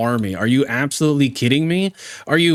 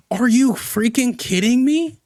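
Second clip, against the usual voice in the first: exasperated disbelief. Real, not acted. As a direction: climb much higher with each stammered let me. Exasperated at the caller's claim.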